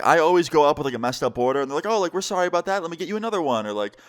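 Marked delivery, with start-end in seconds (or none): 1.9-3.6 high, polite retold apology; lightly acted apology in a higher voice; mock apologetic worker. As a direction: imitate an obliging counter worker, pitched up.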